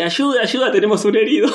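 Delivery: high urgent call for help; shouting for a medic; man down. Retold or imitated. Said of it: "y lo agarra y dice".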